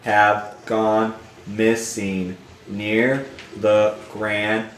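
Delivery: slow, deliberate read-aloud; reading game text. Acted. Reading the game's dialogue box to viewers, slow read-aloud.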